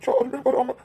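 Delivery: tearful, grieving questions; weepy, pained disbelief; crying. Acted. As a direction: lament to mum through tears. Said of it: "ரெண்டு பேரும் அழாதீங்க".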